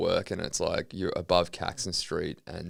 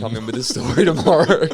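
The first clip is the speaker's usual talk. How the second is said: cracked voice; 6 semitones higher, 12 dB louder than usual. Real, not acted. Co-host retells his send-off to a drinking mate, voice cracking. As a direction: voice cracking upward through a laugh. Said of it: "The cracked voice".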